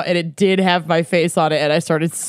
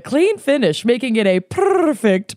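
slow, savored tasting-note read; deliberate, lightly hammed-up wine pitch; scripted wine description; 3 semitones higher than usual. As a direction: present the wine like ad copy. Reads out a wine write-up.

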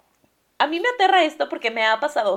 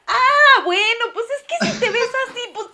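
excited laughing exclamation; 11 semitones higher, 6 dB louder than usual. Real, not acted. Excited reaction to good looks.

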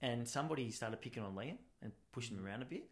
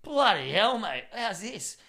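loud, high, hammed-up disbelief; mock amazement; 9 semitones higher, 11 dB louder, slower than usual. Bystander watches the barter unfold, loudly and comically amazed. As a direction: marvel loudly, pitched up.

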